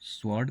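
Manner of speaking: स्वॉर्ड said wrongly with a W glide; a second wrong take on स्वॉर्ड, W sounded; another mispronunciation. Shown as a demonstration. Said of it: "ये भी गलत है". (स्वॉर्ड का एक और गलत उच्चारण)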